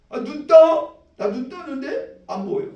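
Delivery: startled yelp. Acted. Stumbling blind man crying out in shock. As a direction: cry out after stubbing a foot.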